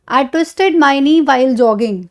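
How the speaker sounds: drawn out, word by word; very slow example. Shown as a demonstration. Teacher reads example to class, very slowly. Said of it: "For example".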